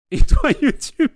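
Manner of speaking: appel fort, haut et lent avec un rire; interpellation rieuse. Real, not acted. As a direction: lance l'appel à YouTube en riant. Interpelle YouTube en riant. (appel enjoué et fort)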